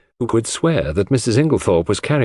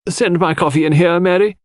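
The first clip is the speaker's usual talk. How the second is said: called out higher and louder to the next room; calling out; 9 semitones higher, 3 dB louder than usual. A narrator's reading. Mrs Inglethorpe calling to Mary for coffee, raised voice. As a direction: call it through the doorway. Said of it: "she called".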